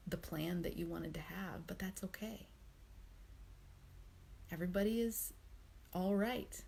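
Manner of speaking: unhurried, supportive self-comfort with pauses; loving, soothing voice. Acted. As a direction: comfort yourself as you would a friend. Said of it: "kind, soothing".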